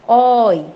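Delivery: emphatic demonstration of open "Oi"; open sound. Shown as a demonstration. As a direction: push out "Oi" with the vowel wide open. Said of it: "também é um som aberto".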